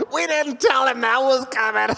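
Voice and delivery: high voice cracking up with laughter; Kirk. Retold or imitated. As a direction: imitate a director helpless with laughter. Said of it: "really good Kirk impression".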